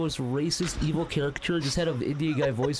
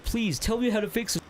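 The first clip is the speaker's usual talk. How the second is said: mock pleading; 5 semitones higher than usual. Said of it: "he's like".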